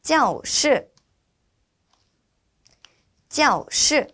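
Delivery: high starts, sharp falls on both syllables of 教室; careful, separated falling tones in 教室; repeat-after-me model. Shown as a demonstration. Teacher asking students to repeat 教室, careful model. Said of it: "같이 한번 따라해서 해볼까요".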